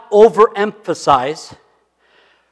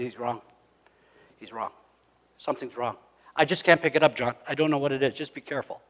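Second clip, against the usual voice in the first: quiet; 3 semitones lower, 9 dB quieter, faster than usual. Retold or imitated. Quiet retold phone advice.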